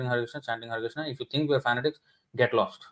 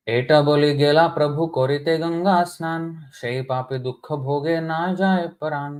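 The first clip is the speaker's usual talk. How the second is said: scripture verse recitation; faster than usual. A narrator's reading.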